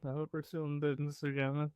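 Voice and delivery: quick, soft aside; under the breath. Acted. Business partner's private hope, said under the breath. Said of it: "I'm gonna say under my breath".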